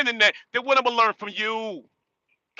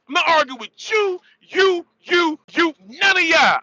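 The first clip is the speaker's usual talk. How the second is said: heated shout; 5 semitones higher, 3 dB louder than usual. Real, not acted. Vlogger shouting at internet critics that he won't argue. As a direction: voice rising and loud, jabbing at each you.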